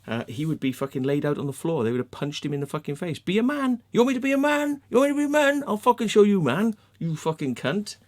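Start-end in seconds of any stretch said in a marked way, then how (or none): 3.2-8.0 high, incredulous mock outrage, settling by the end; acted angry retort. Friends answering the man's challenge, acted angry comeback. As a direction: act out squaring up for a fight. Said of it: "That's what they would have given him".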